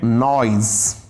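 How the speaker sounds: नॉइज said slowly with a voiced Z ending; correct pronunciation of noise. Shown as a demonstration. Teacher giving students the answer, नॉइज with a clear Z. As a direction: model नॉइज carefully, "noyz". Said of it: "आप बताइए इसका सही pronunciation क्या है".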